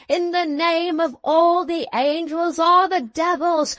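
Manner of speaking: urgent battle cry. A narrator's reading. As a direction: drive the fighters on at full voice. Defarge urging on fighters in battle.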